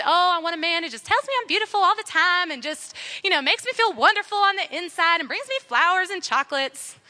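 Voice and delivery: mock a starry-eyed wish list in a Southern lilt; Southern accent. Preacher mimicking a woman who wants flattery, playful Southern accent. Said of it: "that's in a Southern accent".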